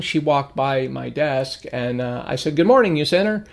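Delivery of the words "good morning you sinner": breezy jab, half-joking; greeting a religious coworker as a playful tease; playful teasing. Retold or imitated. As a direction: tease a passing coworker lightly. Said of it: "just sort of playfully".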